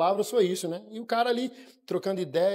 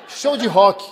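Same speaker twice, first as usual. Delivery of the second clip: proud answer; 2 semitones higher, 10 dB louder, slower than usual. Retold or imitated.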